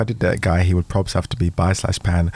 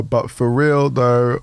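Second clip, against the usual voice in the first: slow, halting read; much slower than usual. Real, not acted. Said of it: "oh, sorry, I've lost myself".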